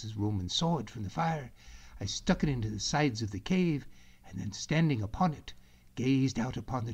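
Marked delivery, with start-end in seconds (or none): none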